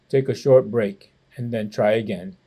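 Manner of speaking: a hint of a kindly grandfather; lightly voiced grandpa. Grandpa patiently coaching the tired boy, low.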